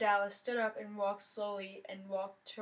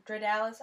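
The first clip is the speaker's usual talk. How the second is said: Dreadalis said louder and deliberately; correcting; 5 dB louder than usual. A narrator's reading. Girl correcting her friend's joke name, firm correction. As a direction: set the name right firmly. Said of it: "I corrected".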